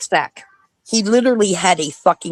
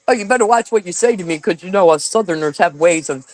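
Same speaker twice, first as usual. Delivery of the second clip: mocking Southerner; 3 semitones lower than usual. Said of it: "constantly says".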